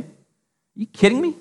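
high, slow, outraged disbelief; indignant disbelief. Retold or imitated. Mimicking offended religious people: high, slow scandalised disbelief. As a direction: scoff like a scandalised churchgoer, drawn out and way up high.

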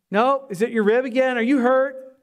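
lightly voiced fretting loved one; concerned family member. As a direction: press him with mock concern. Imitates worried family questioning him.

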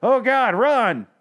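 high, loud shriek of fake terror; hammed-up panicked run cry; mock panic. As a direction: flee screaming like a coward. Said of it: "And you just kinda went".

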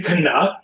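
"Canuck" said kuh-NUCK; corrected pronunciation. Shown as a demonstration. Montrealer correcting a guest, "Canuck" rhyming with duck. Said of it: "pronounce it wrong".

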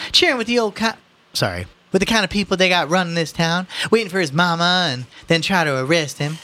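high, loud indignant mother; scolding mother. A narrator's reading. Mother telling off the policeman, indignant. Voices Mrs. Riley.

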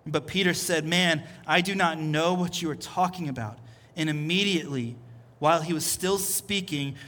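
measured, deliberate Bible reading with pauses; scripture reading. Acted. Preacher reading the denial to congregation, measured and grave. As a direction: read the passage aloud solemnly, letting it settle.

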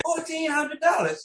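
very high, slow sing-out; retold excited answer. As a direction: stretch it out high and proud.

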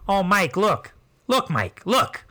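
imitated Midwestern mother, lilting; playful mock Midwest mom; Midwest cartoon mom. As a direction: coo and point things out in a Midwest accent. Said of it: "the mom had that accent".

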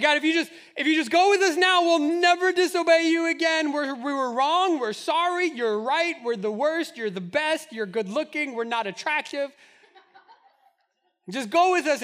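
high, loud, hammed-up pleading; loud desperate begging. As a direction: grovel at God at full volume. Israelites begging God, voiced.

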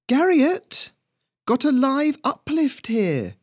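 very high, loud bird squawk; bird calling out. A narrator's reading. Bird calls its boss over a survivor, high squawking call. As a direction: call out slowly in a piercing bird voice. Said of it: "one of the birds called".

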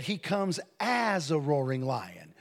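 AS drawn out and emphasized; he comes AS, with weight on AS; stress on AS. Shown as a demonstration. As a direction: lean on the word "as". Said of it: "it doesn't say he is".

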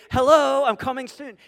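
loud "Hello", then dropping back; loud mock call. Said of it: "Let me say it again".

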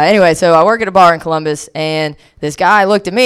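usual speaking voice

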